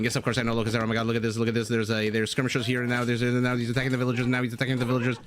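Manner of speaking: fast, excited caster impression; Loco Ser impression. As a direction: rattle off the play-by-play like an excited caster. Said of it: "That's my impression of Loco Ser".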